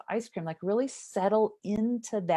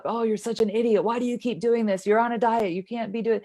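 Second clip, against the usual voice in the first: scolding yourself, a little higher and louder; mock inner critic, sharp and scornful; harsh self-criticism; 3 semitones higher, 3 dB louder than usual. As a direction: berate yourself like an impatient critic. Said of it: "I'm beating myself up".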